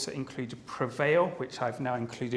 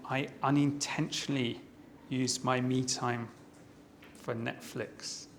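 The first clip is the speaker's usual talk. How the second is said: slow, soft, sorrowful quote; 2 semitones lower, 6 dB quieter than usual. Retold or imitated. Evaluator echoing the speaker's line, very slow. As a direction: drag each word out with sorrow. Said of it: "you used a very slow way of saying".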